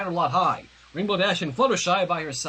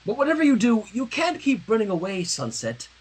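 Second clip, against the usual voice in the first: firm prim scolding; 4 semitones higher than usual. Acted. Prim friend firmly telling Sunset to stop running. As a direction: put your foot down, primly.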